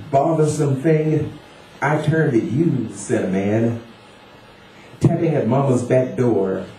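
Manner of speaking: lilting, deliberate poem reading with pauses between phrases; poetry recital. Acted. Poet reads Daddy to an audience, poetry recital. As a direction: recite it phrase by phrase, letting each line fall.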